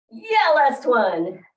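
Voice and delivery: breathless after squats; puffing for air between words; out of breath. Real, not acted. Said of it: "Anybody else a little bit out of breath?".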